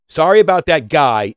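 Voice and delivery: "Sorry" hit hard and loud, then the rest thrown away; wrong careless apology. Shown as a demonstration. Coach showing the wrong apology, a loud throwaway sorry. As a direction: bark the sorry and drop the rest. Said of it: "is not correct".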